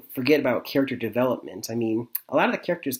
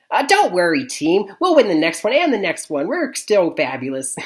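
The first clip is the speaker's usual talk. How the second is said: mock pep talk; 6 semitones higher, 6 dB louder than usual. Line cheers the losing team.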